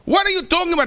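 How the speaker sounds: high, loud outrage; furious yell. Acted. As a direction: tear into the guards. King yelling at guards.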